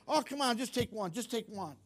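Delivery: lightly acted cajoling friend; coaxing peer pressure. Friend tempting a teen to drink, mock coaxing.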